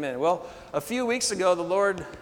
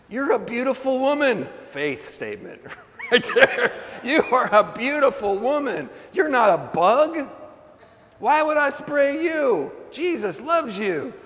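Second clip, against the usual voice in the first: emphatic reassurance; 8 semitones higher, 6 dB louder than usual. Retold or imitated. Preacher answers woman wanting spray.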